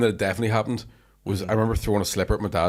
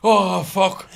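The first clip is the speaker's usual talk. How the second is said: laughing dread; 10 semitones higher, 6 dB louder than usual. Retold or imitated. Laughing at own fear.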